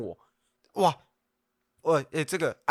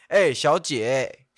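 mock pickup line; 4 dB louder, much slower than usual. Shown as a demonstration. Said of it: "你就会".

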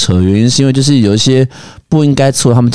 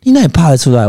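put-on Taiwanese accent; 5 semitones higher, faster than usual. Mother voiced in story.

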